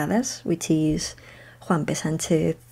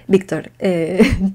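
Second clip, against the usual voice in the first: Spanish accent; 6 dB louder, slower than usual. Shown as a demonstration. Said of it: "so weird saying his name in, in an English accent".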